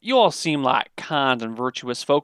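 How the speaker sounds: lightly voiced folksy local; welcoming local. Local welcomes the virtuous strangers, friendly and folksy. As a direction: invite them in as a friendly townsperson, pitch lifting. Game master plays a local.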